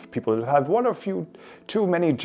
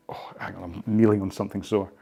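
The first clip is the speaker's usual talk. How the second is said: sudden hushed whisper; 3 semitones lower than usual. Real, not acted. Whispering to camera while kneeling on something sore. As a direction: breathe it under your breath.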